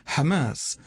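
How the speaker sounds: Hamas said slowly with a soft h; Hamas, gentle breathy h; soft Ha sound. Shown as a demonstration. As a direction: say Hamas with the Arabic h, not kh. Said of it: "that Cha sound is, Ashkenazi".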